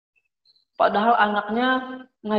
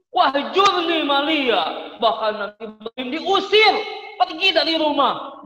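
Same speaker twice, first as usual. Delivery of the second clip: angry father; 4 semitones higher than usual. Acted. Father drives son out.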